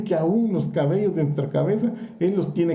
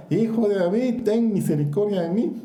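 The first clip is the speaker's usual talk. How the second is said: raised, higher pleading call, only a mock yell; blind man's cry; 4 semitones higher than usual. Preacher voicing the blind man calling to Jesus, higher imitating plea. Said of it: "más gritaba".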